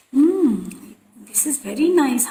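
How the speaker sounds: lightly voiced guru savouring food; Gurudev's approval. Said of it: "And then he said".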